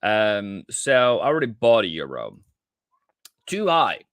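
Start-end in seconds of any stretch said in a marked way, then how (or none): 3.5-4.0 a sharp, higher cry of Too high, rueful at his own entry; exclaiming too high. Real, not acted. Trader realising he bought too early, higher rueful exclamation. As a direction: yelp "Too high" up high like a wince. Reacting to an early euro buy.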